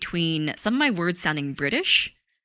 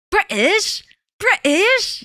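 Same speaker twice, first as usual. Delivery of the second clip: high, loud British glottal-stop caricature; mock British accent; 6 dB louder, much slower than usual. Streamer joking with chat about accents, hammed-up British. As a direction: exaggerate a British accent, dropping the T.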